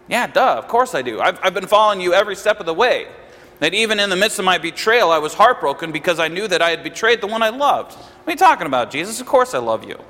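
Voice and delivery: mildly indignant imitated protest, mostly hurried; taken aback. Preacher voicing Peter answering Jesus, mildly taken aback. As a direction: lightly act out a rushed, taken-aback reply. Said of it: "Peter would be taken back by this and go".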